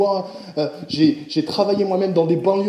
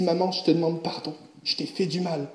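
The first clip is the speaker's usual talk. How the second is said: soft apology; 4 semitones lower, 8 dB quieter than usual. Retold or imitated. Boy asks mother's forgiveness.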